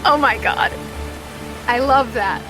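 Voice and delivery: ordinary delivery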